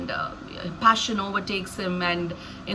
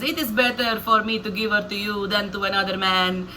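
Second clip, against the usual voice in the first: put-on lightly switched accent for Laban. Laban thinking aloud about Jacob, light accent switch. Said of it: "I again do the accent switch here".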